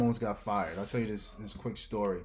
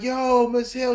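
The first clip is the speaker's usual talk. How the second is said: excited greeting; 13 semitones higher, 10 dB louder than usual. Retold or imitated. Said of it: "I'm like".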